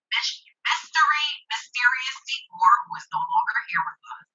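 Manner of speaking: bad connection, sound muffled as if underwater; words garbled like a call from underwater; muffled underwater audio. Real, not acted. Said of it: "it sounds like you're underwater".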